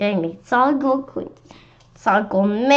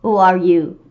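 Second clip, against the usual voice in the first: yelled demand; 6 dB louder than usual. Acted. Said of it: "Miss Yonkers yelled".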